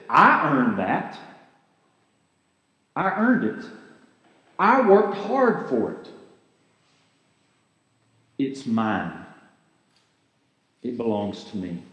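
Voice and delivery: a hint of possessive greed settling low. Pastor acting greed's voice in a sermon, insistent then low. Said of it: "It sounds like this".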